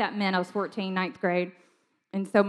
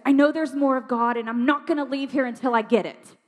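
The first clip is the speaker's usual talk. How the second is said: higher, determined stand; retold bold declaration; 4 semitones higher than usual. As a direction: declare it like a teenager refusing to budge.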